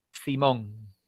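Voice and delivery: low, laid-back "Simón"; slangy youth. Shown as a demonstration. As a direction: toss off "Simón" like a teen. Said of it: "en vez de decir simplemente". (jerga juvenil relajada)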